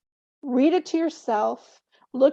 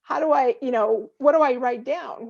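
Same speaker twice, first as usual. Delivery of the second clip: flustered listener. Retold or imitated. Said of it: "the person's like".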